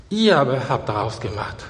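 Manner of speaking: "Ihr aber" stressed, the rest dropping; front-weighted sentence, weight on "Ihr aber". Shown as a demonstration. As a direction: lean on "Ihr aber", then fall away. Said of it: "die Betonung im vorderen Teil des Satzes".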